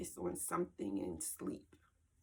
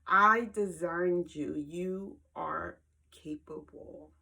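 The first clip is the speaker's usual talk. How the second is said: slow and weighty, first line louder; God's reassuring words; 5 dB louder, slower than usual. Retold or imitated. Repeating God's words to herself, slow and firm. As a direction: lay each word down with calm conviction. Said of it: "This is the part that got me".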